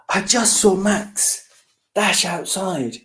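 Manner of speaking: high fish whisper. Acted. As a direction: hush it, high and secretive.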